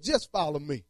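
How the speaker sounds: low, hushed and gentle as the voice of God. Retold or imitated. God answering the sick preacher, hushed. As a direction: let God answer softly.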